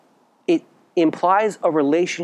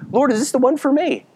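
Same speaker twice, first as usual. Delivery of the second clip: retold prayer; 8 semitones higher than usual. Retelling his prayer before marriage.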